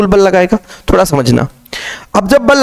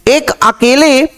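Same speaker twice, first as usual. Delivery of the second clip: slow emphasis; 5 semitones higher, much slower than usual. Shown as a demonstration. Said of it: "क्या बोला गया?".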